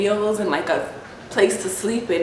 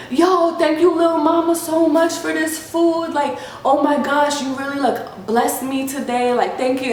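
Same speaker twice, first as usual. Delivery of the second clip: lightly voiced gushing thanks, pitched up; grateful man; 4 semitones higher than usual. Homeless man thanking her for the food, gushing. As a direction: imitate someone thanking you profusely.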